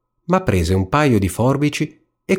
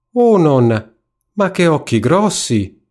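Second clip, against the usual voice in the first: high-pitched storybook astonishment; wide-eyed little girl's wonder; amazed; 7 semitones higher, 3 dB louder than usual. A narrator's reading. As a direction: marvel at it, voice lifted high. Girl amazed at disguised wolf.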